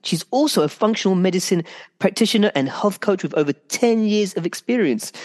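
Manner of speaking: breathless at end of intro; running out of air while reading; out of breath. Real, not acted. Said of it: "Victoria, I'm running out of breath".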